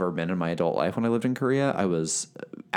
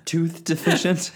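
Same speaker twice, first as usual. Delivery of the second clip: amused disbelief; 9 semitones higher, 5 dB louder, slower than usual. Real, not acted.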